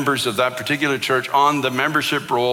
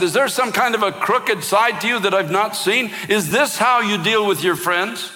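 higher, raised accusing question, not a full yell; recalled outburst, pitched up and pressed; retold yell at God; 7 semitones higher than usual. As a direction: hurl the question at God again, heated but held. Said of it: "And I yelled out at God".

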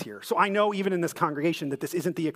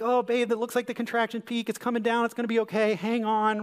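a touch higher, eager soothing; soothing husband; 6 semitones higher than usual. Retold or imitated. Young husband reassuring his wife mid-contraction, eager and soothing. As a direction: play the earnest young husband comforting. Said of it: "seeking to be the nice, kind, supportive husband".

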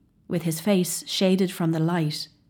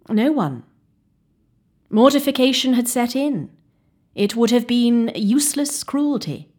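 raised, higher grave explanation; firm; 6 semitones higher, 6 dB louder than usual. Acted. Physician telling O'Donnell why no one operated, firm. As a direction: state the hard facts firmly.

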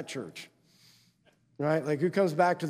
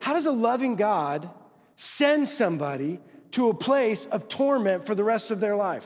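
raised, emphatic challenge; higher, insistent questioning; incredulous question; 4 semitones higher than usual. Retold or imitated. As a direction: voice a troubled doubter's question, pitched up. Acts out doubter's incredulous question.

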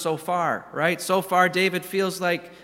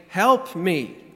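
a louder, urgent call for help; urgent cry; 2 semitones higher, 4 dB louder than usual. Retold or imitated. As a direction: shout it like you're drowning. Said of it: "It's urgent".

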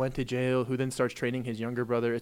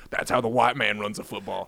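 Stone Cold impression; 4 semitones lower than usual. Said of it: "Stone Cold being like".

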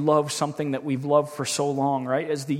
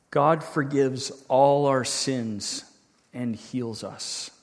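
slow reading; 3 semitones lower, much slower than usual. Real, not acted. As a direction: let each phrase settle, growing hushed. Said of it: "I'll read them through slowly".

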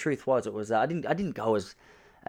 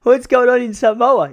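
mock enthusiasm; 12 semitones higher, 9 dB louder, much slower than usual. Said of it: "And I go".

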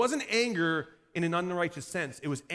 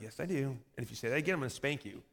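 low, softer mock-stern reply; deadpan dad; 4 semitones lower, 4 dB quieter, faster than usual. Dad answering his pouting son at bedtime, deadpan warning. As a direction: drop it low and matter-of-fact. Dad's retort to pouting child.

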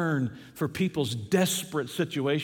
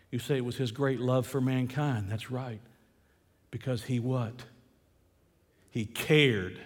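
low, soft pulpit aside; hushed reflection; 6 semitones lower, 5 dB quieter than usual. Real, not acted. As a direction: drop low and let it sink in. Preacher drops down before building.

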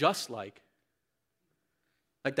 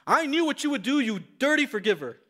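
high, loud half-scream of a tantrum; mock scream; 7 semitones higher, 4 dB louder than usual. Poem's Jonah screaming at the forgiving God, loud and high. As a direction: throw the words like a sulking child. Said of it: "he screamed".

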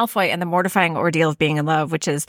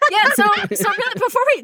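laughing; 13 semitones higher than usual. Real, not acted. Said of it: "laughing high after joke".

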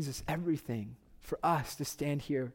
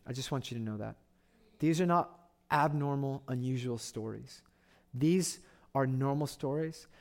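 tender appeal; 4 dB quieter than usual. Real, not acted. Preacher assuring the congregation God loves them, softly. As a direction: speak gently, straight to them.

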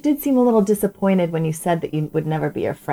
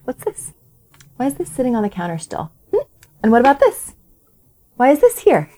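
nagging wife; 5 semitones higher than usual. Retold or imitated. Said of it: "start going like this to my husband".

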